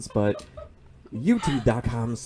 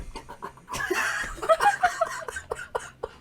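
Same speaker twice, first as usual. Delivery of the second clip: breathy giggling fit; wheezing with laughter; high unvoiced laugh. Real, not acted. Cracking up at own ghost impression.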